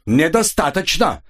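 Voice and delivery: вспылив; exploding. A narrator's reading. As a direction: snap back, refusing to drop it. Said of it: "взорвался Ян".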